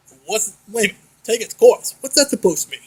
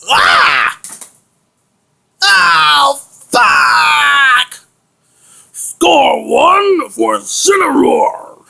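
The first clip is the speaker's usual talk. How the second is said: pained scream; 3 semitones higher, 3 dB louder, much slower than usual. Acted. Hit and crying out in pain.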